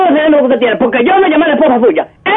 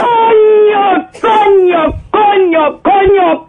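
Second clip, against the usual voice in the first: raging cry; 3 semitones higher, much slower than usual. Acted. Insulted old super exploding at the husband, raging yell. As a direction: let the curse burst out howling.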